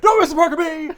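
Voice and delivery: high mock shriek of protest; riot act. Aunt overruling the agents, in a high shout. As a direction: shout them down, loud and high. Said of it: "gives everyone in shield the riot act".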